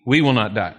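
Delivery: "We" подчёркнуто, первое слово выделено; stress on We. Shown as a demonstration. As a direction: lean on "We" at the start. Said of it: "the word "we".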